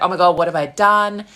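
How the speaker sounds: a touch of horror at oneself; mock dismay. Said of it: "Most people are gonna be like".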